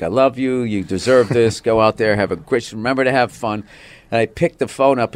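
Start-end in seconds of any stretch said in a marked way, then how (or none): 0.0-3.6 lightly voiced supportive wife; mild, loving pep talk in a wife's role. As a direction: gently imitate an encouraging wife. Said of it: "this is why I married her".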